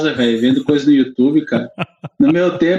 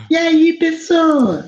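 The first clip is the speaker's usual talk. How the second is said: silly voice; 13 semitones higher, much slower than usual. Pretend. Silly put-on greeting.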